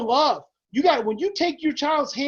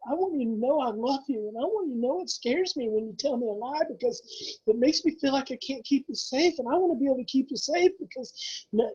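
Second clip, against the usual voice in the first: gentle parent reassurance. Acted. Parent voiced comforting lying child.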